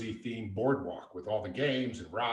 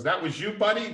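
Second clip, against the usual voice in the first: retold surprised question; 10 semitones higher, 6 dB louder than usual.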